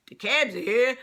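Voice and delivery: loud, high Jersey catchphrase yell; Pauly D. Retold or imitated. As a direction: holler it like a Jersey party guy. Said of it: "when Pauly D's like".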